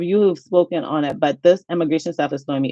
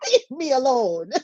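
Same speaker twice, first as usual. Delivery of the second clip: mock crying whine; 6 semitones higher, slower than usual. Repeats plea, mock crying.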